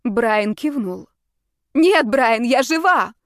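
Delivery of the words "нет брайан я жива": loud, higher desperate exclamation; exclaiming. A narrator's reading. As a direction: shout to reach him. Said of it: "воскликнула я".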